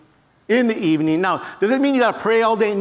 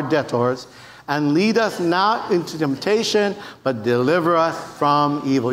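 leading congregational prayer; 3 semitones lower than usual. Acted. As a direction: lead a crowd in unison prayer, deliberately paced. Leads congregation in the Lord's Prayer.

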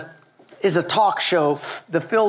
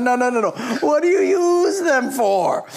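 questioning Lord; 4 semitones higher than usual. Retold or imitated. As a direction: press them gently but firmly as God.

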